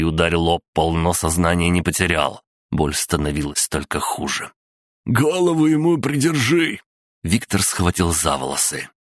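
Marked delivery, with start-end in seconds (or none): 5.1-6.8 high, urgent order to an accomplice; high-pitched acted order; acted urgent command. A narrator's reading. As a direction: call it out high, mid-struggle. Torturer barks order in story.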